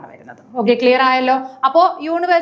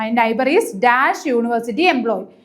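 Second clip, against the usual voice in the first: very slow reread in a lower voice; slow, lower second reading; slow repeat, a bit lower; much slower than usual. Shown as a demonstration. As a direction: repeat it slowly, settling down. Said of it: "first question എന്താണ്".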